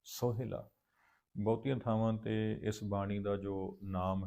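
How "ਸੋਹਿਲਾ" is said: ਸੋਹਿਲਾ said carefully, syllable by syllable, falling at the end; correct reading. Shown as a demonstration. Teacher shows the class how to say ਸੋਹਿਲਾ correctly. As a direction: say ਸੋਹਿਲਾ slowly and clearly. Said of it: "ਸੋਹਿਲਾ ਨਹੀਂ, ਸੋਹਿਲਾ".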